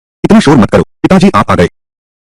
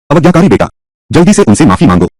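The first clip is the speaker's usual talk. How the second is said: scolding father; 6 semitones higher than usual. Acted. Father scolds his son.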